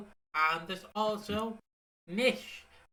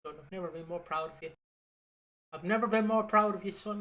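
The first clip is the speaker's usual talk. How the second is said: fast, rising, louder proud father; proud dad; 2 semitones higher, 3 dB louder, faster than usual. Retold or imitated. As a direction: gush over your son like a proud dad. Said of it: "he's like".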